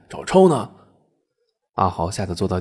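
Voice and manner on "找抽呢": loud, high-pitched threat; sharp, scolding outburst; angry threat. Acted. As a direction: threaten him with a slap. Old woman threatening a slap.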